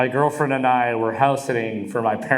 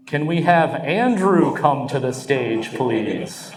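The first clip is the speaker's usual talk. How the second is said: mock announcer; slower than usual. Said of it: "the announcer goes".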